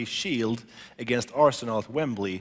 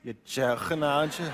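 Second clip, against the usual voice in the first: imitating Scouse. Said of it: "that's very good".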